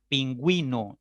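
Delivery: "Pingüino" said as pin-gwi-no; sounded U. Shown as a demonstration. Teacher gives students another example, U clearly sounded. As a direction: give "Pingüino" a clear W glide. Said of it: "la U se pronuncia".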